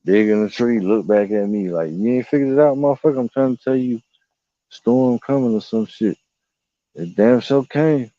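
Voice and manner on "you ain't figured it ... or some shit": higher, knowing bee voice; voicing the bee. Carpenter bee warning the speaker of a storm, higher.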